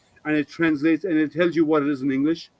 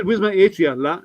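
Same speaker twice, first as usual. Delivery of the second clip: fast Singlish; 3 semitones higher, 3 dB louder than usual. Shown as a demonstration. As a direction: say it quick like a local, then end on "la". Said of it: "It's so fast".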